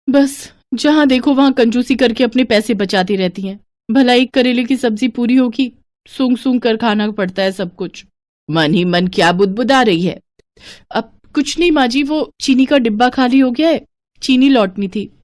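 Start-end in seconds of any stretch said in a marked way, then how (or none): 0.1-3.6 higher, mocking mutter; mock her stinginess under your breath; lightly voiced annoyed young wife; grumbling daughter-in-law. 3.9-5.7 higher, sarcastic भला up front; daughter-in-law mocking the mother-in-law's words; mocking echo. Daughter-in-law mocks the portion. 6.1-8.0 higher, mocking mutter; mock her stinginess under your breath; lightly voiced annoyed young wife; grumbling daughter-in-law. 10.9-15.1 put-on higher, polite young wife; lightly voiced daughter-in-law.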